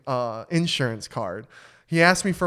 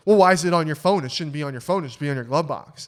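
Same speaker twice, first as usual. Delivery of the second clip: snarky cop; 6 dB louder than usual. Retold or imitated. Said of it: "now he's getting real snarky".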